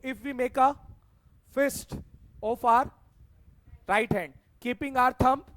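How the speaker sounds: slow dictation in short, separated chunks; classroom dictation. Real, not acted. Teacher giving students the rule to write down, slow dictation. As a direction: dictate it slowly, lifting the ends for completion.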